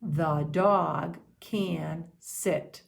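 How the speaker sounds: THE DOG CAN SIT, very slow, separated words; word-by-word count. Shown as a demonstration. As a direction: count out each word slowly. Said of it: "Let's count how many words".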